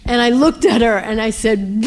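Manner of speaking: ordinary talk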